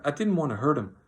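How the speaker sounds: loud, high plaintive wail; distressed cry. A narrator's reading. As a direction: wail it high, pleading innocence. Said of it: "Lenny cried".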